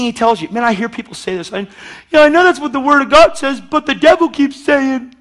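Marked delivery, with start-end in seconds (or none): 2.1-5.1 acted-out doubter. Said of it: "I'm acting it out".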